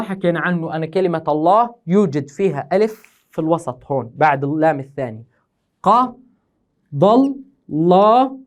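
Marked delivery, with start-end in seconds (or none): 5.8-8.4 very slow, each syllable held apart; syllable-by-syllable scansion. Shown as a demonstration. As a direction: stretch each syllable of the verse. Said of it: "يلا يا أخوي نقطع". (تقطيع عروضي بطيء)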